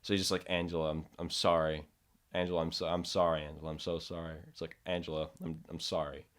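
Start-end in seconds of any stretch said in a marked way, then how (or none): 0.5-4.4 crying apology. Retold or imitated. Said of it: "he's, like, crying". 4.9-6.3 crying apology. Retold or imitated. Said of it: "he's, like, crying".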